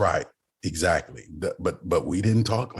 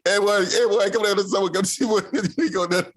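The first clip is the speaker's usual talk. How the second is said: country uncles calling; 13 semitones higher than usual. Retold or imitated. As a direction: holler like a rowdy Southern uncle. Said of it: "Especially if they talking in groups".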